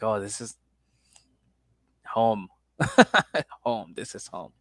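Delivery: relaxed contentment. Acted. Host hearing a familiar Boston accent, relaxed contentment. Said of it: "Like, I feel relaxed".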